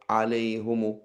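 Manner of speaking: alayhumu demonstrated; awkward version. Shown as a demonstration. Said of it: "which is easier to pronounce?".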